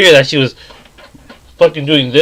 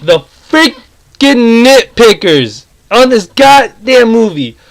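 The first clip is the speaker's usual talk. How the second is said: slow, biting start of a rant; getting pissed off; 5 semitones higher, slower than usual. Real, not acted. Reviewer starting to rant about nitpickers, slow and irritated. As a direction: drag out the words as the anger starts. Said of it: "I'm about to get really pissed off".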